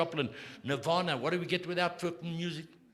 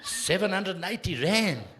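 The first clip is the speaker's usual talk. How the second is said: outraged repeat; 5 semitones higher, 4 dB louder than usual. Retold or imitated. Father outraged at the price.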